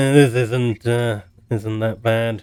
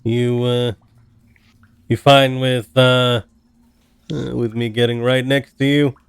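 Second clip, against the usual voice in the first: cautious, louder in-character question; 8 dB louder than usual. Acted. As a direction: ask carefully but loud. Player voices character to dragon.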